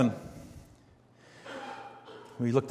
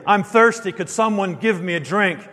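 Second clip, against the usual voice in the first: mock plea; 5 semitones higher than usual. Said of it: "He simply makes a statement".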